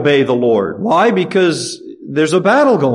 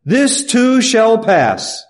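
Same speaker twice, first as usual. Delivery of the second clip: slow emphasis; 6 semitones higher, much slower than usual. Acted. Preacher savoring scripture phrase slowly.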